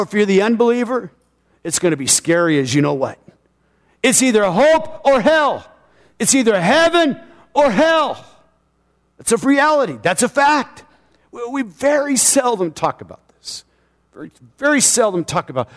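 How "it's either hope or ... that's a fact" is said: high, punchy preacher's declaration; emphatic preaching. Real, not acted. Preacher setting hope against hell, preaching high and emphatically. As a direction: drive each verdict home from the pulpit.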